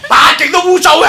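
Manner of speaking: high, loud laughing jab. Real, not acted. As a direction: blurt it out through laughter. Teasing retort, laughing.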